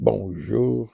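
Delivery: slowly drawn-out Quebec bonjour; Quebec French accent. Retold or imitated. Guard returning the rabbi's daily greeting, Quebec French accent. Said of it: "with a heavy Quebec French accent".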